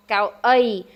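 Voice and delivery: "gao ai" with stress on "ai"; model pronunciation. Shown as a demonstration. Teacher models the Khmer word for chair. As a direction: say "gao ai" clearly.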